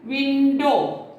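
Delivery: "window" with WIN stressed, DOW falling away; stress on first syllable. Shown as a demonstration. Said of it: "generally stressed on the first".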